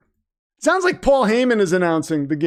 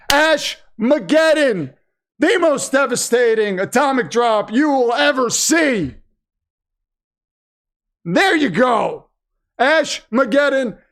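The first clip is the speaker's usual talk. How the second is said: hyped commentary; 2 semitones higher than usual. Pretend. Hyping the finishing move.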